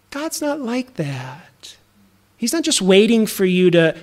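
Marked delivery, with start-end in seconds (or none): 0.1-1.8 whisper. Real, not acted. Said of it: "unvoiced soft line".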